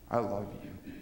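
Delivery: low, soft, hushed words of love; soft whisper. Acted. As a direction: breathe it gently as God's voice. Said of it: "you can hear God whisper".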